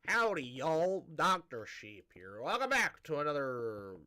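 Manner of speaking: badly faked Southern show intro; terrible Southern accent. Shown as a demonstration. Host trying a Southern greeting for listeners, terrible Southern accent. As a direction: lay on a clumsy Southern twang. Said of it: "my southern accent's gonna be terrible".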